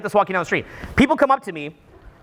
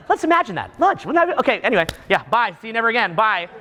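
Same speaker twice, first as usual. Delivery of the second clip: mock LA brush-off. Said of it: "It's like".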